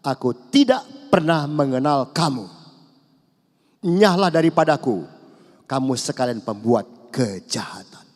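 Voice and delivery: loud, firm sentence; stern rejection. Acted. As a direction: cast them out forcefully. Voicing God's rejection. (Tuhan menolak dengan tegas dan keras)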